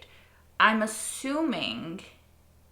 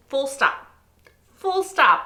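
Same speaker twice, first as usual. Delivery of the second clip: higher and louder, punched; emphatic declaration; 4 semitones higher, 6 dB louder, slower than usual. Real, not acted. Reactor declaring herself an idiot, emphatic and loud. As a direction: slam it down as final.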